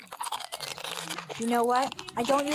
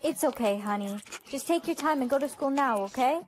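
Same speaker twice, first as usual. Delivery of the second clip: gentle; 4 dB quieter than usual. Acted. Parent comforting late child.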